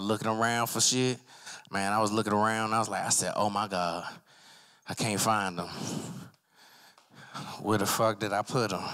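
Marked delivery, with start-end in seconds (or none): 3.4-8.8 stoned bewilderment. Acted. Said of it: "the edible be like this".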